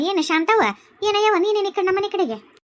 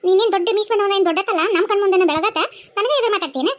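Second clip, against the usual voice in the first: scolding tirade. Acted. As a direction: tear into the rude young man. Neighbour scolds the son angrily.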